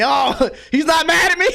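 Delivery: high, hollered Jersey guy impression; Jersey accent. Mimicking the store guy from the story, Jersey accent. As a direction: crow it like a relieved Jersey guy. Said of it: "kinda like a Jersey accent".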